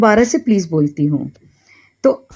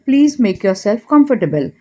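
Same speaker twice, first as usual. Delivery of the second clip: very slow, every word laid out clearly; slow model phrase; much slower than usual. Shown as a demonstration. Teacher slowly models an English apology for Hindi learners. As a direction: say it slowly so learners can repeat it. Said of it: "तब हम उसे ये कह सकते हैं".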